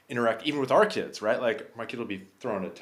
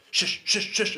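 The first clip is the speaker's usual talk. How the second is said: quick, higher-pitched "shush" in rapid repeats; mock shushing; 13 semitones higher, 3 dB louder than usual. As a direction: shush a kid in a hurry. Acting a parent shushing the kid.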